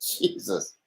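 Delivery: breathy whispered exasperation; whispered jesus. Real, not acted. After a botched start, a whispered curse. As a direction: mutter it under your breath.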